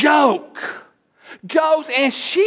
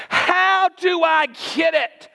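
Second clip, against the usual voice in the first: raised preaching shout; shouted question; 5 semitones higher, slower than usual. Real, not acted. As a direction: call the question out to the church.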